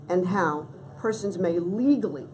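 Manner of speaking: legally given gentle extra weight; stress on legally. Real, not acted. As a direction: lean a little on the word legally. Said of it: "and I emphasize the word legally".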